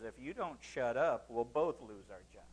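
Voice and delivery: low, soft under-the-breath warning; quiet low aside from the lion; hushed lion aside. Acted. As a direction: lean in and hiss it low and soft. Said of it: "the lion leans over and says".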